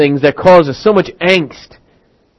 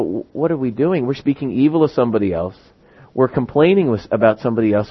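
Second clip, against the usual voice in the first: quieter, retold self-questioning; subdued questioning; 3 semitones lower, 6 dB quieter than usual. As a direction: voice the group's misgivings softly. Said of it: "And we sit there and we go".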